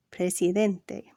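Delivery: presidente slow, stress on the DEN syllable. Shown as a demonstration. Teacher showing stress: presidente slow, DEN stressed. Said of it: "accented on the next to last syllable".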